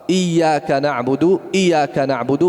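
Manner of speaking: iyyaka na'budu read fast, tasydid dropped; fast wrong reading. Shown as a demonstration. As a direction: rush iyyaka na'budu, swallowing the double y. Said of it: "Kalau kita baca cepat". (iyyaka na'budu dibaca cepat tanpa tasydid)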